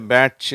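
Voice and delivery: பேட்ச் with t plus a hard chu; common mistaken reading. Shown as a demonstration. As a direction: show the error in பேட்ச், ch not sh. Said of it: "இட்டும் இச்சும் சேர்த்து".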